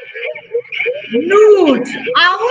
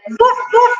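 higher, barked woofs; playful dog woofs; 5 semitones higher than usual. Shown as a demonstration. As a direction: bark like a dog for the kids. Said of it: "Sound of dog".

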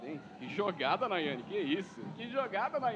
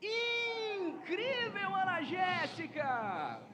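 amazed; 3 semitones higher, much slower than usual. Real, not acted. Amazed after goal.

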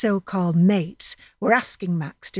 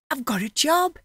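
higher, joyful announcement; excited shout; 7 semitones higher than usual. Acted. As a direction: burst out with the good news. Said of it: "he shouted".

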